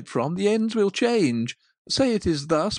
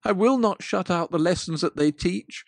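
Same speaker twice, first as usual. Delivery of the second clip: louder, anguished vow; agonized pleading; 5 dB louder than usual. Acted. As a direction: Scrooge swearing to change, in agony. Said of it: "In his agony".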